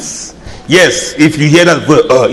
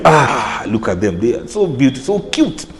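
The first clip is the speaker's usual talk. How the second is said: cooing admiration; 3 semitones lower, 5 dB quieter than usual. Retold or imitated. Cooing over cute twins.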